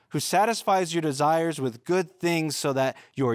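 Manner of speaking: high, lifted praise reading; exultant scripture reading. Acted. Pastor reads David's praise psalm aloud, lifted and exultant. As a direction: read it like David on fire with praise.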